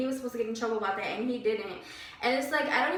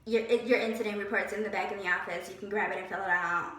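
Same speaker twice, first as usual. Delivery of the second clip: lightly mimicked boss, slightly lower; imitating the other boss; 4 semitones lower than usual. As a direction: lightly mimic her, low and unbothered. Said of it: "That's how she sounded".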